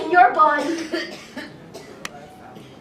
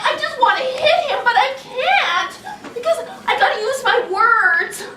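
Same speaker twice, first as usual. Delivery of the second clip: high, exasperated mock tantrum; whiny pretend frustration, pitched up; acted anger; 5 semitones higher than usual. Teacher playing child cross at little brother, mock angry. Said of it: "I feel so angry".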